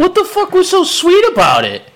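high, slow disbelieving question; incredulous. Real, not acted. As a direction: ask it in stunned disbelief. Disbelief at booger gum story.

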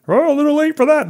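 lightly mocking the contractor's shrug; mock contractor reply. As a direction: sneer it back. Contractor's smug reply voiced.

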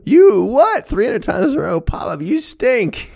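very high, loud shriek of disbelief; astonished grandmother. Retold or imitated. Grandmother hearing of three hundred wins, shrieking disbelief. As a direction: screech it in disbelief, then jeer.

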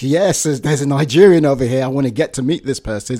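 quick, eager rush of delight; like a puppy spotting a friend; eager excitement. Retold or imitated. Spotting a fellow Nigerian's name at work, eager. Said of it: "I'm wagging my tail".

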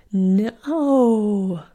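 loud, frantic no; panicked cry. Acted. Bellamy tugging at the locked door, panicked. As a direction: yelp it in panic. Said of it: "let out a panicked".

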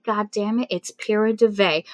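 normal talking voice

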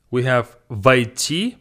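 войти said slowly, stress on the last syllable; slow clear model. Shown as a demonstration. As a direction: sound out войти slowly for learners. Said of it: "Войти is to enter".

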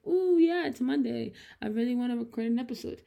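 playfully eager self-quote; mock enthusiasm. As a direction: imitate your own keen thought. Mock enthusiasm quoting own thought.

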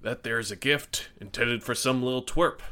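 gruff voice pushed out on a burp; burping the words. Acted. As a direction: talk through a belch. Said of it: "Kirk says with a burp".

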